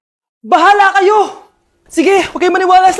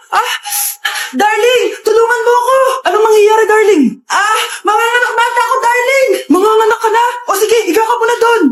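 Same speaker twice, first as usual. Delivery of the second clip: panicked labor cries; 3 semitones higher than usual. Acted.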